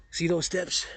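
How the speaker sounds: hushed, breathy whisper; softly whispered aside about the steps. Shown as a demonstration. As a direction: whisper it like a secret. Repeats the same line whispered.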